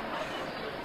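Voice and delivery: soft breathy chuckle. Acted. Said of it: "sorry for laughing".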